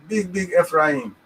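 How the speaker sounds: slow, drawn-out mocking; mocking emphasis. Real, not acted. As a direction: stretch it out with mock scorn. Mocking the tribe name.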